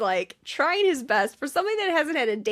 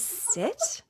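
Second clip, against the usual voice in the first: high mock command; 11 semitones higher, 7 dB quieter than usual. Lily's line, voiced high.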